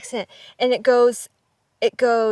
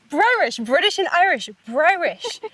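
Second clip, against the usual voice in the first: higher, swooping and pleased; gleeful announcement; 5 semitones higher than usual. Real, not acted. Sharing the perfect name for an accent, gleeful. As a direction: proudly show off a coined word.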